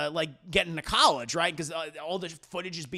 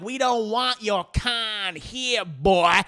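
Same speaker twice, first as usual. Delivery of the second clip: mock redneck taunt; 2 semitones higher, 5 dB louder, much slower than usual. Racist townsfolk voiced.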